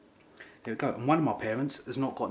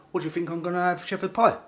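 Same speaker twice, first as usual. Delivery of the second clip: higher, mildly outraged comic retort; mock indignation; 7 semitones higher, 6 dB louder, faster than usual. Man acts out refusing English food, mock indignant. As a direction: act offended by the very suggestion. Acted indignant reply about dinner.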